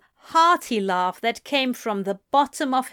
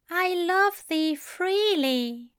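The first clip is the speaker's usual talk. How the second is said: higher, slow tender recital; reciting poem; 9 semitones higher, slower than usual. A narrator's reading. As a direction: savour the words. Angel reciting poem slowly.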